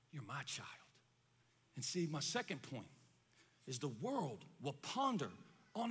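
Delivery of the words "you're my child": very low, hushed voice; God's gentle whisper. Acted. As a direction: drop far down in volume and pitch, confiding. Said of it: "God will come to us and whisper".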